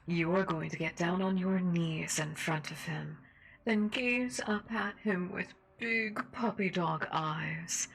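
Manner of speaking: menacing seductive host voice; sinister mistress. Acted. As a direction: taunt him like a cruel mistress. Sinister radio host role.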